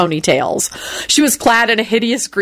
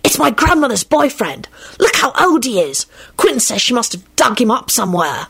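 put-on boy's voice; 5 semitones higher than usual. A narrator's reading. Tim gossiping.

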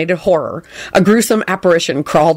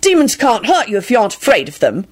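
triumphant; 3 semitones higher than usual. Acted. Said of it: "Tim announced triumphantly".

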